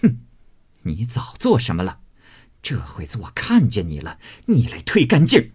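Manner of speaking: snort, then scold with mounting contempt; scornful scolding. Acted. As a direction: spit out a scornful rebuke, rising sharply at the end. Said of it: "凤姐啐道". (啐骂，轻蔑地斥责)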